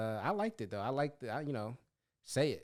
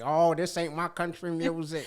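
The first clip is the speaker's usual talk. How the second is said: put-on country accent; 3 semitones higher than usual. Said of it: "Do your country accent".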